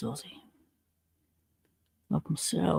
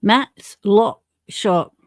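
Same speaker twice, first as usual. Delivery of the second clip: slow announcer call; 2 semitones higher, 4 dB louder, much slower than usual. Real, not acted. Announcing a viewer's channel.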